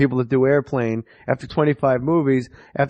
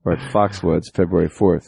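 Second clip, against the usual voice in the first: mock plug announcer; 8 semitones lower than usual. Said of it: "Enough with the plugs".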